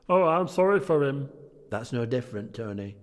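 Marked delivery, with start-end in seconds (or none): 0.1-1.3 high, loud go at Cockney; attempted Cockney. Nephew pitying Scrooge, redone in attempted Cockney. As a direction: try a hammed-up Cockney accent. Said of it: "Maybe try Cockney, Tony".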